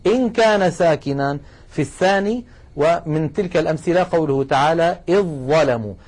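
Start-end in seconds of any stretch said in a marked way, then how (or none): 5.1-5.9 إدغام الذال في الظاء; assimilated recitation. Shown as a demonstration. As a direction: say "إذ ظلموا" with no ذ heard, straight into ظ. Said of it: "لاحظوا بأني أقول إذ".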